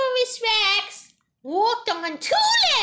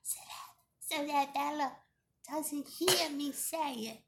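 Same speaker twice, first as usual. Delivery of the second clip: softer, hushed so a sibling won't hear; quiet; 5 semitones lower, 10 dB quieter than usual. Real, not acted. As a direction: keep it low and secret. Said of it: "I'm gonna say it really quiet".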